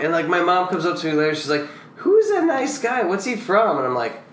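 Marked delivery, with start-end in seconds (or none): 2.0-3.8 high, slow, sweetly clueless mom voice; imitating mom. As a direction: mimic the mom, high and slow with innocent cheer. Mom's quote about Kane Hodder.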